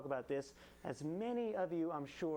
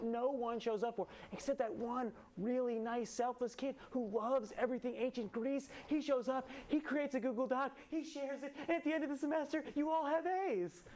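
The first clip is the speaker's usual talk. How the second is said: punchy late night jokes; 6 semitones higher than usual. Acted. Punchline building up.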